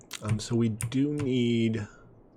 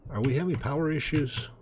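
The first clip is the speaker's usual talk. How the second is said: higher-pitched mock-questioning tone; self-posed question, pitched up; rhetorical question; 6 semitones higher than usual. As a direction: ask it as if you already know the answer. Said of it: "He said rhetorically".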